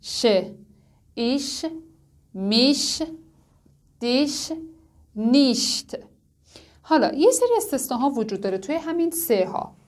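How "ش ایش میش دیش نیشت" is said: ایش، میش، دیش، نیشت one by one with soft ich-sound. Shown as a demonstration. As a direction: drill the soft ش, word by word.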